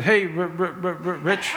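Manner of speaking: innocently echoed stammer on "Rich"; copied stutter. Retold or imitated. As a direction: copy a stutterer, repeating the R before "Rich". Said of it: "I was just emulating him".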